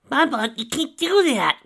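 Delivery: high arguing voice. A narrator's reading. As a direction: argue her out of it, high. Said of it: "Ditsy argued".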